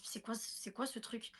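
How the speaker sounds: hushed puzzled whisper; whispered question to herself in the dream. Retold or imitated. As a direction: breathe it out, unvoiced and puzzled. Puzzled thought inside a dream.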